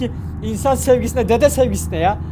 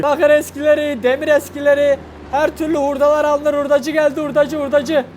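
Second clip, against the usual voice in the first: hurdacı çağrısı. Pretend. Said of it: "hurdacı olduk".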